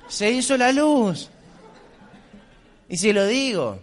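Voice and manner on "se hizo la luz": proclamado en alto y despacio, triunfante; anúncialo como una revelación; triumphant exclamation. Retold or imitated. Alivio exclamado. (exclamación triunfal, lenta)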